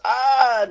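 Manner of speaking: loud, high yelp of pain; hammed-up cry of pain; pained yell. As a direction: yell as if you stubbed your toe. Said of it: "Fucking kicks one of the barrels instead and goes".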